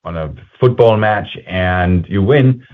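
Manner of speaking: ordinary delivery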